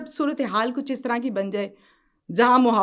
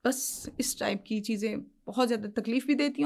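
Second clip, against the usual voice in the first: hushed whisper; 6 dB quieter than usual. Real, not acted. Moved recalling child's suffering.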